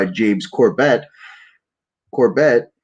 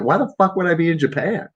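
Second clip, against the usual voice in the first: bewildered shout; 7 semitones higher than usual. Retold or imitated. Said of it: "I'm like".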